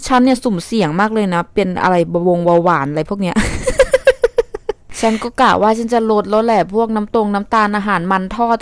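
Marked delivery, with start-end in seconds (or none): 3.4-5.0 high laugh. Real, not acted. Laughs at her own health risk.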